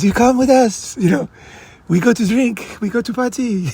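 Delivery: French girl inviting him to party, mock French accent. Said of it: "And she goes".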